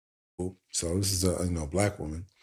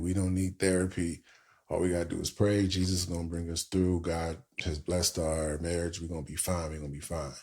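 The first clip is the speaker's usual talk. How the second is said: soft, fading reassurance; a husband waving off therapy, mildly; dismissive husband; 2 semitones lower, 4 dB quieter than usual. Retold or imitated. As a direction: brush it off and trail away. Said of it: "He kept saying".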